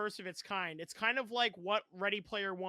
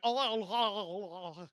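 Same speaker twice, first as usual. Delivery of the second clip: put-on Cockney accent; 5 dB louder than usual. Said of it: "a very thick Cockney accent".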